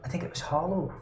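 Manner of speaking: lightly voiced elderly barkeep, hesitant; a hint of a doddering old innkeeper; old woman voice.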